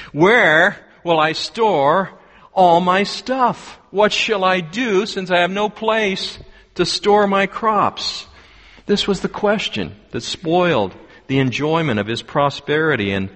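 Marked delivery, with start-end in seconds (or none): 0.1-8.3 fretting farmer. Acted. Farmer fretting over storage.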